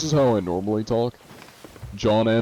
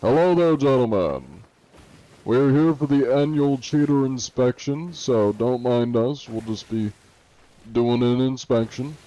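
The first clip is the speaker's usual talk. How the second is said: higher, louder mock inspector voice; mock official greeting; 3 semitones higher, 4 dB louder than usual. Inspector greeting the other ship's crew, hammed-up official voice. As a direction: announce the inspection like a polite official. Greets players as Anti-Cheat persona.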